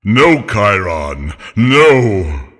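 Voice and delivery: low, loud wailing denial; deep centaur voice crying out in despair; anguished cry. Acted. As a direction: howl his brother's name. Nessus as brother vanishes.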